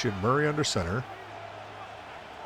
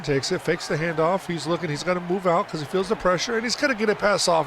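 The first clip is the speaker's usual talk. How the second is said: excited; 5 semitones higher than usual. Real, not acted. Pass under pressure, play-by-play.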